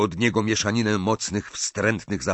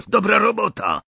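much higher, louder cheer on dobra; gleeful cheer; 12 semitones higher, 4 dB louder than usual. A narrator's reading. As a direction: shout it in triumph. Death Eater cheers Draco.

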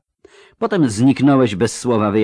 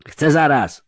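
yell; 5 semitones higher than usual. Acted. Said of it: "wrzasnęła".

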